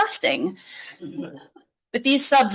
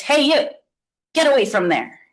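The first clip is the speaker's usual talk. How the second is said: stern voice; 5 semitones higher than usual. Acted. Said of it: "a stern voice says".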